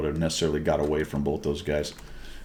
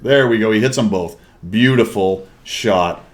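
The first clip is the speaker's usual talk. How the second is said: excited approval; 3 semitones higher, 6 dB louder than usual. Real, not acted. Cheers a lucky double hit.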